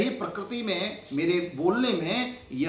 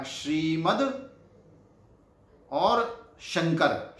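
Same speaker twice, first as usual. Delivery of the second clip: slow sounding out; much slower than usual. Shown as a demonstration. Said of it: "teacher sounds out words".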